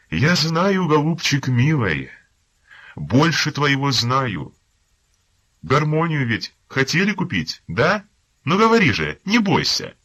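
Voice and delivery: high, loud, mock-sweet coaxing voice; falsely tender officer. Staff captain sweetly coaxing the beaten prisoner, high mock tenderness. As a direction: coax him like a cat with a mouse. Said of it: "тихим, ласкавим голосом".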